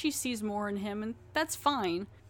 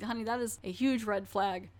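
shouted warning. Retold or imitated. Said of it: "I'm like".

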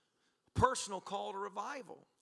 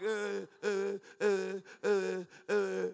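repeated dumbstruck "uh"; mock tongue-tied noises; panicked stammering; 3 dB louder, much slower than usual. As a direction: stall on stuck, wordless sounds. Acts out being untrained, stuck.

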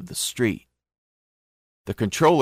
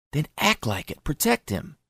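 heated demand; 6 semitones higher, 4 dB quieter than usual. A narrator's reading.

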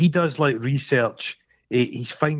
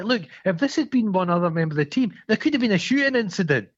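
lightly acted, higher-pitched passive-aggressive telling-off; mock reproach in a raised pitch; 7 semitones higher than usual. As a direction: imitate someone making a pointed complaint, pitched up. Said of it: "it's so passive aggressive".

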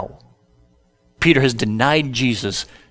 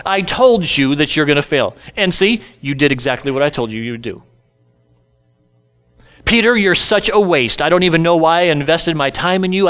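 mock scolding; faster than usual. Imagined condemning look from Jesus.

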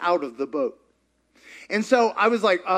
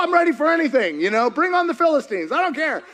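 joyful bravado; 7 semitones higher than usual. Retold or imitated. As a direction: sound ready to take on the world. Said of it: "I was so full of joy and hope".

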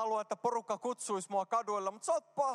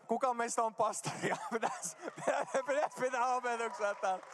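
laughing through the words at own mistake; 3 semitones higher than usual. Real, not acted. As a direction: break up in real laughter while talking. Nauraa omalle virheelleen. (nauraen omalle mokalle)

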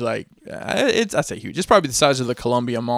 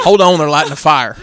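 mock Klansman voice; 8 dB louder than usual. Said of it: "Whenever anyone impersonates the Klan".

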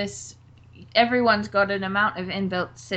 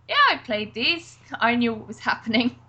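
fake confident; 3 semitones higher than usual. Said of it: "I pretended to be someone else".

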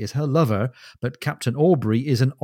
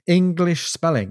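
English spelling pitched higher and drawn out slowly; exasperated repeat; 6 semitones higher than usual. Acted. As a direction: throw up your hands at English spelling, higher and slower.

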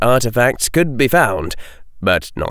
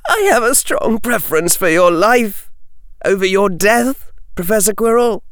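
put-on high, earnest boyish plea; earnest young Harry; 12 semitones higher, 3 dB louder than usual. Harry pleading continues.

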